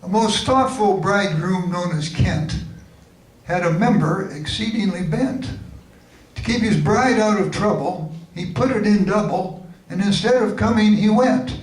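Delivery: measured, lilting limerick reading; limerick recital. Acted. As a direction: recite it as comic verse. Recites own comic limericks.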